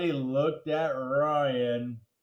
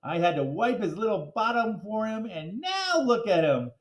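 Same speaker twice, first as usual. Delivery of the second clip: teary mom; 5 semitones higher than usual. Acted. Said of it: "Missus Dole continued".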